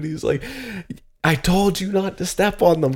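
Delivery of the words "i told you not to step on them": very high, pissed-off, angry tone, acted out. Retelling how a dad reacted on the roof: imitating a furious dad. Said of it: "he got so pissed off".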